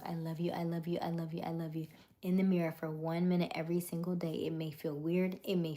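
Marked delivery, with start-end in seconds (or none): 0.0-1.9 whispered self-love. Shown as a demonstration. Host showing viewers mirror work in a whisper. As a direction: breathe it like a secret to yourself. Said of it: "I want you to tell yourself".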